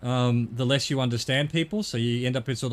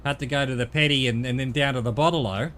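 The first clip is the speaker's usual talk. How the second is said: mock Aussie slang; 3 dB louder, faster than usual. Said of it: "they do it famously for Australians where they go".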